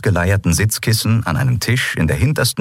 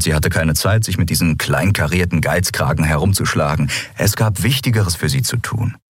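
plain reading voice

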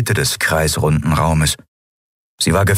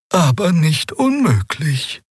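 murmured; 11 semitones higher, slower than usual. A narrator's reading. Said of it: "murmelte Xea".

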